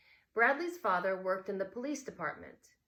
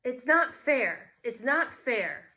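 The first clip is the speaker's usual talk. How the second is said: put-on upset child; 6 semitones higher, 10 dB louder, slower than usual. Bradley upset, runs to room.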